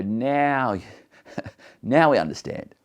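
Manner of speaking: relieved delight, a touch of laughter; relieved disciples. Retold or imitated. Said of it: "the disciples are relieved".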